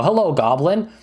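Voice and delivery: a hint of a chipper adventurer; helpful adventurer. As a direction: offer a goblin help in pretend play. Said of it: "come up to a goblin and you go".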